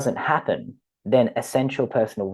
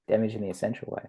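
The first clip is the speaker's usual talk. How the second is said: much softer repeat of "Damage in the essential way"; soft afterthought echo of "Damage in the essential way"; quiet echo; 7 dB quieter, much faster than usual. Shown as a demonstration. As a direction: let the words "Damage in the essential way" fall away, softly.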